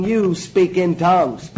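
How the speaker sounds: slow, deliberate, each word weighed; slow emphasis. Shown as a demonstration. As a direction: spell it out slowly for them. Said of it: "Reason I emphasize it that way".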